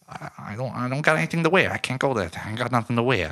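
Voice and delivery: high, pleading and ashamed; whiny Rizzo. Retold or imitated. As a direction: beg off like a man with nothing to wear. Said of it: "He's like".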